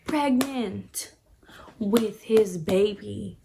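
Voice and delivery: hushed, whispered reveal. Real, not acted. Telling the viewer she is pregnant, whispered. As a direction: whisper it like a scandalous secret.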